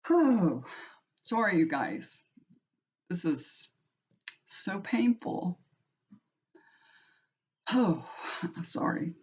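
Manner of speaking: breaking down and apologizing; crying. Real, not acted. Grandmother apologizing to viewers while crying. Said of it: "I'm gonna wipe my tears".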